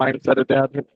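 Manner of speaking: gurgly, watery voice; talking through a gargle; while gargling. Real, not acted. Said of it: "You're kinda gurgly".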